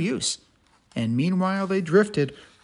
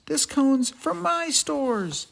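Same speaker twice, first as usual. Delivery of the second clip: high squirrel voice; 6 semitones higher, slower than usual. Acted. Bruce claiming the cone.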